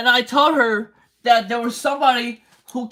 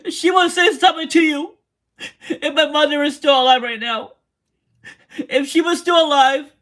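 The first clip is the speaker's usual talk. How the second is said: real crying. Real, not acted. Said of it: "Me crying right now".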